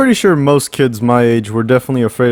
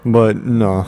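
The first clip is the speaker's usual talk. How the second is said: caveman talk; much slower than usual. Acted. Childish caveman-speak monkey joke.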